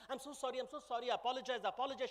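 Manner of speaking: hurried, repeated apologizing; meek, confused apology; profuse apology. Acted. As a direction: apologize over and over, flustered. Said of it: "apologizes profusely, looking very confused".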